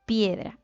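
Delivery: piedra as PIE-dra, falling; weight on PIE in piedra; stress on first syllable. Shown as a demonstration. Teacher confirming the answer, firm PIEdra. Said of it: "cargamos la voz ¿dónde?".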